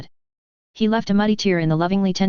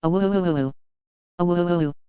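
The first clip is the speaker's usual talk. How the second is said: wolf howl; much slower than usual. A narrator's reading. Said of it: "echoed from the kitchen".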